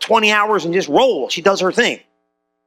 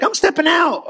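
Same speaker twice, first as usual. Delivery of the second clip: pitched way up, bold and eager; bold declaration; 8 semitones higher than usual. Retold or imitated. Believer boldly declaring a step of faith, eager and high. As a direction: announce it like leaping into faith.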